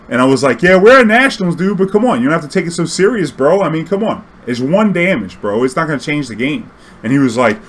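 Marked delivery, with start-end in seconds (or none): 0.6-6.7 high, loud, exasperated; exasperated arguing. Retold or imitated. Player arguing with a rules-strict opponent, loud and exasperated. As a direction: argue it's no big deal.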